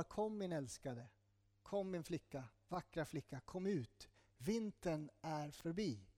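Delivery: soft, slow loving call to come out; tender call. Acted. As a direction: coax her gently, like a lover at the window. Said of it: "Han ropar". (mjukt, ömt lockrop)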